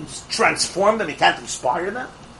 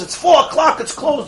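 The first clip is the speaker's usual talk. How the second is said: firm manager; 7 semitones higher than usual. Retold or imitated. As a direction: lay down the rule, no arguing. Manager states bank is closed.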